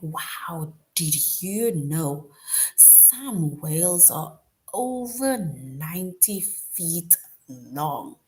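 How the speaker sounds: a mildly amazed wow, slowed down; surprised. Shown as a demonstration. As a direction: tell it like a surprising fact. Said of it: "'Cause you would be like".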